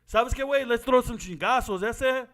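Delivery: lightly voiced cholo cousin; a hint of a barrio cousin; Chicano slang. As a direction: toss it off like his homeboy cousins. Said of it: "my cousins say stuff like".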